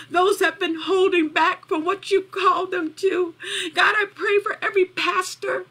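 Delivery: earnest prayer with searching pauses; heartfelt intercession. Real, not acted. Woman prays encouragement for struggling pastors, heartfelt intercession. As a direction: pray in short petitions, letting each settle.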